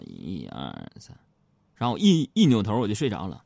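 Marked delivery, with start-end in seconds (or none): 0.0-1.1 slow, very low, much softer mumble as if falling asleep; drowsy counting. Pretend. Husband teasing his wife, pretending to doze off mid-count, slow and sleepy. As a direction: drift off while counting.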